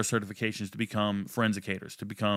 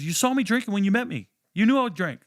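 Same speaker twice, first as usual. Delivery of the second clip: high, louder mock girlfriend accusing; imitating girlfriend; 10 semitones higher, 5 dB louder than usual. Ex-girlfriend insisting he knew, high indignant mimicry. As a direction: throw it back at him in her voice, pitched up high. Ex-girlfriend blaming him back.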